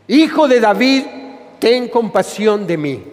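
calling out, then easing back down; a restrained plea called out to Jesus; mild acted cry. Blind man calling after Jesus for mercy, mild acted cry.

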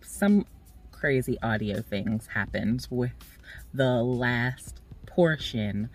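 sounds like speaking inside a car; recorded in a car. Real, not acted. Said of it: "that's why it may sound a little different".

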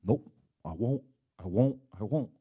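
mock a strong-willed child digging in; preacher imitating a strong-willed child who refuses, sing-song; stubborn child. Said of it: "the child who's got the strong will".

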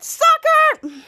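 high, loud taunting yell; taunting shout. Retold or imitated. Girl mocks the man she tricked, high taunting yell. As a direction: sneer the word at the loser.

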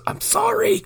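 tiny very high squeak; mock pitiful apology. Co-host imitating John lying there bleeding, mock pitiful squeak.

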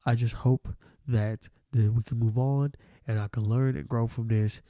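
lightly mocking formal apology. Voicing the students' ideal apology, mock formal read. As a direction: read it as a fake sincere statement. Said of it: "this is what I think they should have said".

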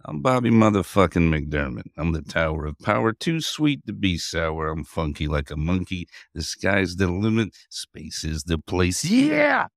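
wrestling promo. Acted. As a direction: cut a cocky wrestling promo. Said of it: "Cutting a wrestling promo over here".

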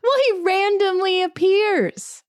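laughing through the words, pitch way up; amused, still giggling as you answer; breaking into laughter while defending the word random. Real, not acted. Laughing at co-host's objection.

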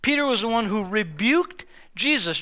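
usual speaking voice

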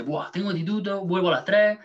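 mock the classmate who naps after school; imitating the girl. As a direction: pitch up and whine through her routine. Voicing the classmate's daily routine.

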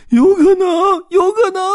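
very high, loud squirrel yell; squirrel shouting. Acted. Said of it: "松鼠大叫".

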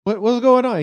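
high, loud shocked outburst; retold shock. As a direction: yelp it in disbelief. Shocked at Daniel alone.

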